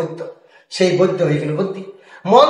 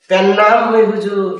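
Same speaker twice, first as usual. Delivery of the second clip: mock humble greeting; slower than usual. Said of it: "এই যে প্যান্নাম হই হুজুরটা বললো".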